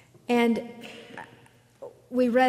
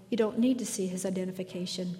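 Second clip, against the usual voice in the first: quietly assured and softer, a touch quicker; lightly voiced Obi-Wan, soothing the guard; calm Jedi command; 4 dB quieter, faster than usual. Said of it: "Obi-Wan Kenobi says calmly".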